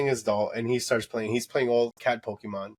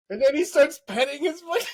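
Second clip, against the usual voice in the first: laughing while talking; 12 semitones higher, 3 dB louder than usual. Real, not acted. Laughing while telling the story.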